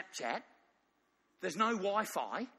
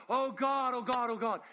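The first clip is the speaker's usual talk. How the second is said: mother crying out; 5 semitones higher, 3 dB louder than usual. Acted. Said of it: "This woman's crying out to God".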